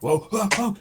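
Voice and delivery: high, loud startled cry; startled whoa. Acted. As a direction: yelp it out in surprise. Minotaur victim startled.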